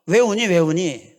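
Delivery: slow, anxious father asking why; a worried father bending over a crying child, drawn out; 우는 아이에게 천천히 묻는 아빠; concerned dad. Retold or imitated. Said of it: "아이를 토닥이면서 물어봤습니다".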